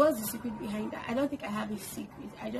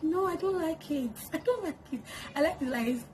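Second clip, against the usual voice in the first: refusing pose; 5 semitones higher than usual. Retold or imitated. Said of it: "I'm like".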